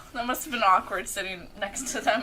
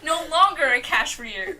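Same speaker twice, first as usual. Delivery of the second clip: laughing; 2 semitones higher, 4 dB louder than usual. Real, not acted. Laughing at own slip.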